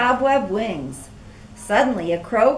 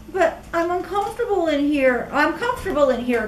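Clara calling; 4 semitones higher, faster than usual. Acted. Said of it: "called Clara".

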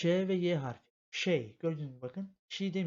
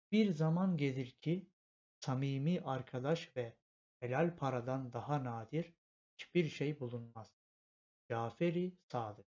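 full reading. Shown as a demonstration. Öğretmen sözü ağır ağır okuyor. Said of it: "tekrardan okuyalım. Tam şekilde".

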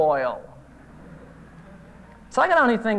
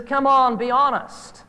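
louder, coaxing insistence; preacher urging the caller to admit lying, with coaxing insistence; pressing; 5 semitones higher, 4 dB louder, slower than usual. Retold or imitated. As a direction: push him to come clean.

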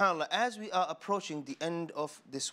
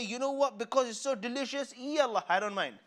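eager happy eater; 8 semitones higher than usual. Acted. Guest agreeing to overeat happily.

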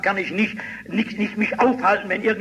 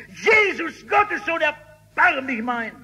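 desperate shouting; 8 semitones higher, slower than usual. Acted. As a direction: shout it out despite the threats. Blind man keeps shouting.

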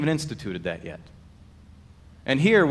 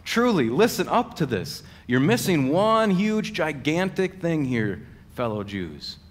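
imitated exhortation, slowing on the big words; urging; 2 semitones higher than usual. Jesus urging fellow Jews to listen, acted insistent appeal. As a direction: plead for attention, raised pitch, then drop away. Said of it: "It's like he's trying to say".

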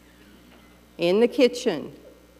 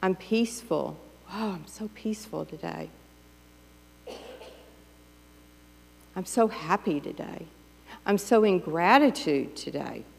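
peaceful. Retold or imitated. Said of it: "Instead of".

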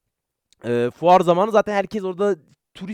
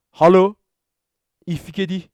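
German hello; 5 dB louder, slower than usual. Shown as a demonstration. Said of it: "Almanca'da da şey biliyorum".

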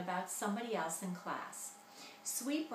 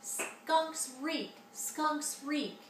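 taunting shout; 6 semitones higher, much slower than usual. Acted. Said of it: "Ragweed shouted".

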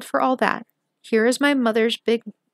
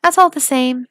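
emphatic; 3 semitones higher, 8 dB louder than usual. A narrator's reading. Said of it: "nodded her head and said".

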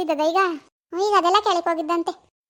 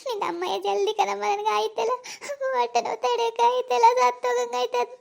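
1 wailing in pain; 5 semitones higher than usual. Acted. Daughter wailing in labour pain.

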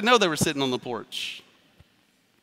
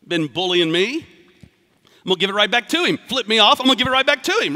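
hammed-up grudge; mock retaliation; 5 dB louder than usual. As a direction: puff up like you're ready to fight back. Voicing vengeful retaliation.

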